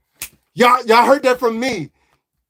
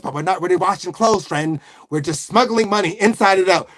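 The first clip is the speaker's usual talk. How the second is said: put-on Italian accent; 3 semitones lower than usual. Mob boss letting his friend in on the smuggling, Italian-American accent. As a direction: lower Italian-American mobster aside. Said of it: "Do an Italian accent".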